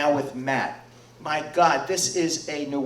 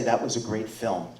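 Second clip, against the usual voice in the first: reverent; 4 semitones lower, 5 dB quieter than usual. Shown as a demonstration. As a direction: lower and softer, with respect. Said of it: "we can all say".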